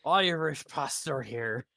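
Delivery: put-on slow, faint Irish pastor accent; a lightly voiced Irish pastor; a hint of Irish, slow and deliberate; vaguely Irish accent. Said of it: "that sounds vaguely Irish".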